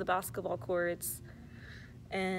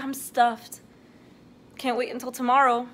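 voicing the baby; 4 semitones higher, 8 dB louder than usual. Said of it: "then she's like".

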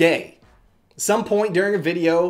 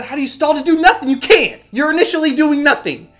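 raised, louder, incredulous ranting; worked up and higher-pitched, baffled by nonsense; exasperated rant; 3 semitones higher, 4 dB louder than usual. Real, not acted. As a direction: argue back in loud disbelief.

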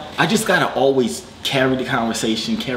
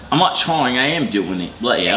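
hammed-up English accent with a laugh; put-on English accent. Caller questions his accent, put-on English accent. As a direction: insist in a fake English accent. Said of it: "trying to do an English accent".

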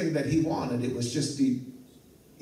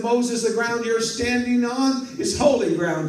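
voice of God; 6 semitones higher, 5 dB louder than usual. Acted. God speaks from the bush.

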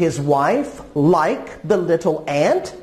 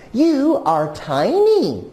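higher, lightly acted disbelief; mildly incredulous; 5 semitones higher than usual. Farmer and wife doubting the little ant, mildly incredulous. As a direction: point out the drawback with mild doubt.

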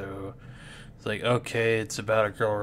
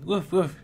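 higher, playful woof woof; mock dog bark; 5 semitones higher than usual. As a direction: imitate a doggy in words. Child mimics barking at fox.

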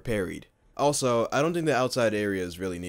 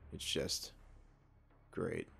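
sarcastic; 5 semitones lower, 16 dB quieter, slower than usual. Real, not acted. Sarcastic about getting shot.

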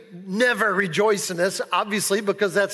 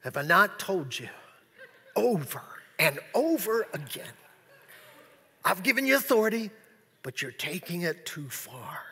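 stern Jesus; 3 semitones lower, 6 dB quieter than usual. Retold or imitated. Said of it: "sternly looking at them like".

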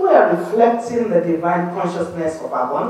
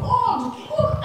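mock shouting at God; 14 semitones higher, 3 dB quieter than usual. Churchgoers crying out to God, mock shouting. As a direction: imitate a shouted prayer in a high voice. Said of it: "everyone is shouting at God".

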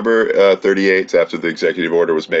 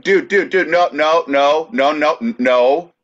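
frantic lawyer protest; 9 semitones higher, slower than usual. Retold or imitated. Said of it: "that lawyer was like".

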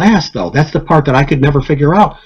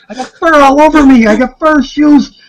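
excited; 12 semitones higher than usual. Retold or imitated. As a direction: marvel at every detail. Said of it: "He's getting more excited".

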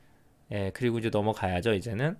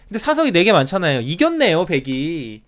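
excited; 4 semitones higher, 6 dB louder than usual. Real, not acted. Realizes white has won.

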